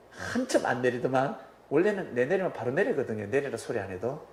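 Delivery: normal talking voice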